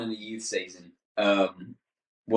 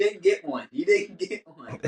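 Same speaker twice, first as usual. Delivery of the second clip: put-on higher kid voice, slowing on the repeat; kid's disappointment; 7 semitones higher, slower than usual. Son realizing he missed the turkey, high disappointed kid voice. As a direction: let the letdown sink in like a young boy. Quoting son after the miss.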